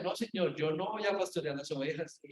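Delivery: softly, as if only thinking it; inner voice, quiet. Retold or imitated. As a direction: say it under your breath to the Lord. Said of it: "por dentro decía". (murmullo interior, en voz baja)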